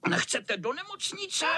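high sneering question; mocking chuckle. Nasty cat mocking the tired boys, sneering. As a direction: sneer it with a laugh. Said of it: "chechtal se zlý kocour".

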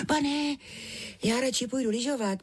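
put-on high little girl's voice, pleading to be let off; small child begging to go skiing instead; girl protesting. A narrator's reading. Minka protests to her uncle, high girlish pleading. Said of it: "bránila se".

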